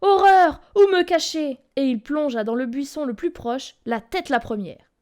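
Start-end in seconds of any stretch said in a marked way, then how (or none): 0.0-1.6 high, loud panic; frantic search for cover; terrified high cry; panicked. A narrator's reading. Wolf panics hiding.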